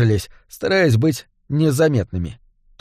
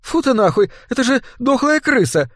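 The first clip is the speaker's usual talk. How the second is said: put-on high, disgusted girl shriek; disgusted exclamation; 10 semitones higher than usual. A narrator's reading. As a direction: recoil in disgust. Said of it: "воскликнула Дарк".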